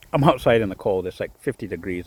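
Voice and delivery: shivering a little while talking; shaky voice. Real, not acted. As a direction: voice shaking from the cold. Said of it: "That's why I got a shaky voice".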